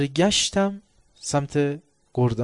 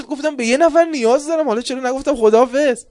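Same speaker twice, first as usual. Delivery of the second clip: loud retelling; 11 semitones higher, 12 dB louder than usual. Retold or imitated. Retold commander inner speech.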